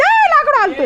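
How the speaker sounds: sudden high cry as the log shifts; startled. Real, not acted. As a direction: caught off balance on a wobbling log. Log shakes underfoot.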